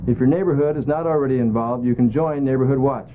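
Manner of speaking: steady announcer PSA read; public service read. Acted. Crime prevention announcement to viewers, measured read.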